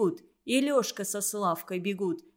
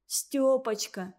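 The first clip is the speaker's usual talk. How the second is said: slow, tearful calling of her name; through tears; 2 semitones higher, slower than usual. Acted. Girl kneeling by her injured friend, slow tearful plea. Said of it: "сквозь слёзы".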